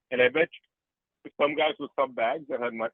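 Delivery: talking through hiccups; interrupted by small hiccups. Real, not acted. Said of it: "I'm, um, hiccuping".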